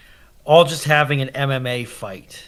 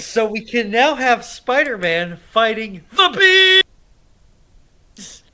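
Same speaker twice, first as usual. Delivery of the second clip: excited shout; 6 semitones higher than usual. Real, not acted. Hyping Spider-Man fight.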